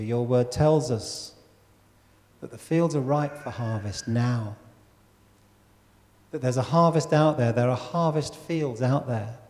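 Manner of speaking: measured, earnest public prayer; solemn prayer with long pauses; leading prayer. Real, not acted. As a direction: pray aloud for the congregation, unhurried and low-key. Leads the congregation in prayer.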